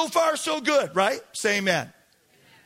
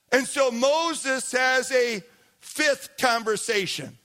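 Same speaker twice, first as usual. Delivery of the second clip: ordinary delivery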